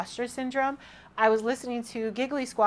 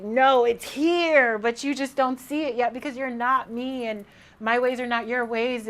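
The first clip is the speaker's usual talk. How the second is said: higher, emphatic God, drawing out the first words; 3 semitones higher, 4 dB louder than usual. Acted. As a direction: correct a doubter as God, starting loud and stretched. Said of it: "And God is like".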